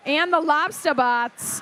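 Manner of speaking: put-on "Lobster" as "lobstah" in a Boston accent, r dropped; slowed Boston accent, "Lobster" without the r. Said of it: "I'm gonna keep saying it like that".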